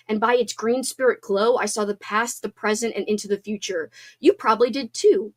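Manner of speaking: measured, expressive book reading; reading aloud. Acted. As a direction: read the passage to your friends. Reads a book passage aloud.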